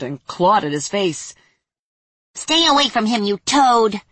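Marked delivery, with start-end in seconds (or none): 2.3-4.0 high, loud fairy yell; shouting fairy. Acted. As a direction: yell at the demon. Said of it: "Yella shouted".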